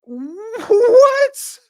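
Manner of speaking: loud, high incredulous "what". Real, not acted. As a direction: burst out in disbelief. Baffled reaction to the quote.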